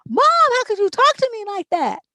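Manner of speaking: high, loud whiny daughter; hurt teen protesting to mom, high and whiny; offended daughter. Pretend. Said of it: "she'll be like".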